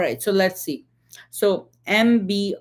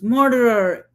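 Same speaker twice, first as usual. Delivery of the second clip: a mock yell of murderer, higher and louder; hollered "Murderer!" with a falling end; retold holler; 4 semitones higher, 5 dB louder than usual. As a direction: throw "Murderer!" out like an accusation from the crowd. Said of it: "hollered at the top of his lungs".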